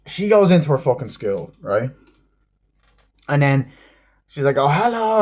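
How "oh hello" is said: high, sing-song mock greeting; a hammed-up cheery hello; mock sweet hello. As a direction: put on a sugary little voice. Mocking character's greeting.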